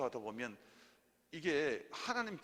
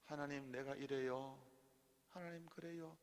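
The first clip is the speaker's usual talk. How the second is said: soft, slow, hushed prayer to God; a quiet, unhurried prayer demo; 9 dB quieter, slower than usual. Shown as a demonstration. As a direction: murmur the prayer gently. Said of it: "하나님께 한번 물어보세요".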